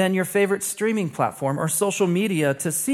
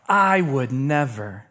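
mock indignant denial; 4 semitones lower, slower than usual. Imitates listener's indignant denial.

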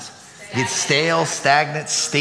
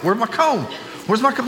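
mock demanding; 7 semitones higher than usual. Asking kids about comb.

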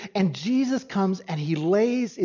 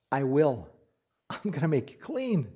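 hushed and lower, a gentle promise; quiet healing words; 6 semitones lower, 7 dB quieter than usual. Retold or imitated. Jesus reassuring the leper he will heal him, hushed. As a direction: speak it softly to the leper.

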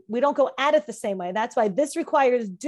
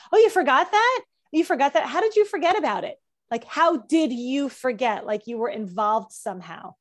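incredulous questioning. Acted. Acted quizzing about forgetting.

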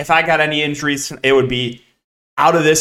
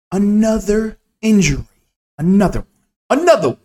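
exasperated outburst; 6 semitones higher, faster than usual. Real, not acted. Another injury during the slate.

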